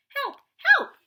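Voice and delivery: high, loud little squeaks; calling for help. Acted. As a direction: shout up from the bottom of a pit. Piglet calling from the pit.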